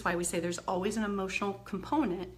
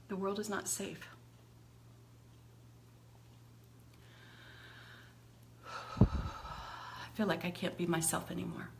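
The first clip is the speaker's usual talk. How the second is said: demo venting; 2 semitones lower, 9 dB quieter than usual. Shown as a demonstration. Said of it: "I'm just venting".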